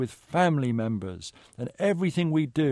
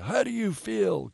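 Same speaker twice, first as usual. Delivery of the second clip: higher, slower rallying call; rising call; 9 semitones higher than usual. Retold or imitated. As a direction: call it out to the crowd, slowly. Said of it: "And then he says".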